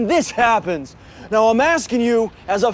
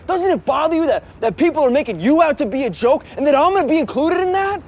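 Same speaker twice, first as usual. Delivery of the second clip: higher-pitched, indignant questioning; upset confrontation; 5 semitones higher than usual. Acted. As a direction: press the questions, voice climbing. Son confronts his father, upset.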